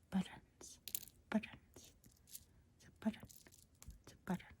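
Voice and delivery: whispered American "buttons"; imitated American pronunciation of "button"; American accent attempt. Shown as a demonstration. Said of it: "in America".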